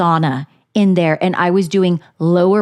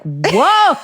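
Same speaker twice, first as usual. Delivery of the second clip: playful startled whoa; mock startled; 5 semitones higher than usual. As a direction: imitate someone taken aback. Husband's retold startled reaction.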